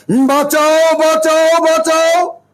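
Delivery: drawn-out mock cry for help; imitated cries for help. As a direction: call out like an alarmed crowd, half-acted. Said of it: "লোকেরা চিৎকার করে বলছে".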